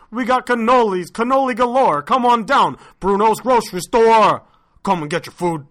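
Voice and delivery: put-on Italian-accented grocer ad pitch; Bruno's Italian accent. Bruno selling prosciutto and cannoli, lively Italian-accented pitch. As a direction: sell it projected, with an on-and-off Italian accent. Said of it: "you put your accent in there".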